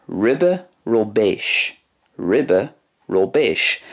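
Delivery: "ryby robeish" said slowly, RIH-bee ro-BAYSH; careful slow Irish phrase; Irish word modelled slowly. Shown as a demonstration. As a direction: spell out "ryby robeish" for learners. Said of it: "the Irish for shrimp is".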